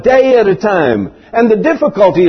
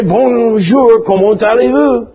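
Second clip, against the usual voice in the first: higher-pitched French greeting; French accent; 4 semitones higher than usual. Acted. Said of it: "if you're a Frenchman and you say".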